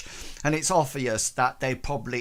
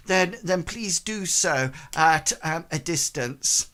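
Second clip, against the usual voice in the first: dismissive woman character; 3 semitones higher than usual. Acted. Game master voices woman rebuffing salesman.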